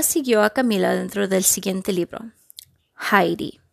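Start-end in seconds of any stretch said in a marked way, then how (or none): 3.1-3.6 hushed title whisper. A narrator's reading. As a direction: whisper the book's name.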